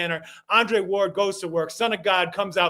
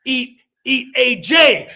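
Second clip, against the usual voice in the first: Mike Tyson impression; 3 semitones higher than usual. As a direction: pump him up like Tyson before a fight. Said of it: "And he's like".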